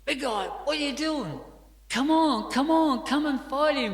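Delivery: high, loud frantic yelling; loudmouth yelling. Retold or imitated. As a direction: urge the big guy on, yelling high. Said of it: "the loudmouth guy goes".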